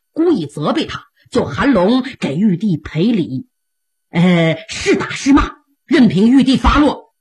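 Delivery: an emperor soothing his angry sworn brother with a smile; lightly voiced placating emperor; smiling appeasement. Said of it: "赵匡胤满脸堆笑".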